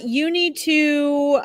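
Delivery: slow, drowsy drag; losing the thread, half asleep; nodding off. Real, not acted. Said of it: "I see I'm half asleep".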